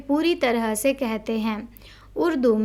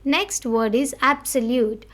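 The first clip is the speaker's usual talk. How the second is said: slow headword reading. Shown as a demonstration. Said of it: "We need to stress on the word".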